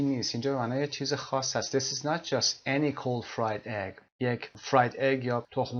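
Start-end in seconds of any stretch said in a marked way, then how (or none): 1.8-4.0 any stressed to mean special, said slowly. Shown as a demonstration. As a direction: lean on any as the teacher models the line. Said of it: "این انی که ... ایتالیک هم نوشته". (تاکید روی any)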